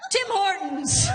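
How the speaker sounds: hyped-up announcement. Acted.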